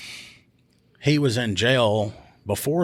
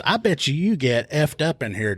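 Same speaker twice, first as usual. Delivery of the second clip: taunting; 5 semitones higher than usual. Retold or imitated. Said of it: "she goes".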